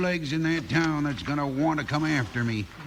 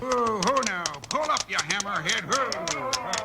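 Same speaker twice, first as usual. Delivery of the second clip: calling to horse; 5 semitones higher than usual. Acted. Reining in his horse.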